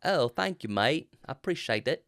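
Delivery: understated British accent, softly spoken; mild, quiet attempt at British. Shown as a demonstration. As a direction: thank them in a put-on British accent. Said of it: "do your best British accent".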